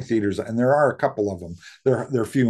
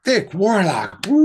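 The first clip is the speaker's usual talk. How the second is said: hyped announcement; 9 semitones higher, 5 dB louder, slower than usual. Real, not acted. Hyping the guest's name.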